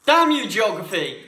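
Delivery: loud, laughing curse; laughing mock outrage. Real, not acted. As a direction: shout it through laughter. Mock curse after wrong answer.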